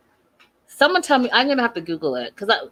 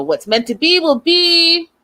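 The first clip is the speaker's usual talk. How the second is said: higher, slow mock-soothing quote; imitating Darcy; 5 semitones higher, slower than usual. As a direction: lay it on like a syrupy pep talk. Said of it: "Darcy comes in and says".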